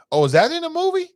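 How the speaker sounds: can't believe what he just read; shocked disbelief. Real, not acted. Shocked reaction to the comment.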